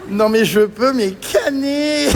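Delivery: crying with laughter. Real, not acted. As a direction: laugh until it hurts. Laughing fit.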